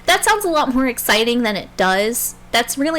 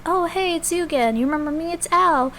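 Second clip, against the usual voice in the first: high, friendly buddy voice pitched way up; Al's voice; 7 semitones higher than usual. Retold or imitated. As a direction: play the eager little pal, all chirpy and high. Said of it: "he really does talk like that".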